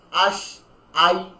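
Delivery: "আল, আন" held slowly with no bounced ending; slow sukun letters; soft stop, no bounce. Shown as a demonstration. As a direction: let it rest, no jolt. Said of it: "কিছুই নেই".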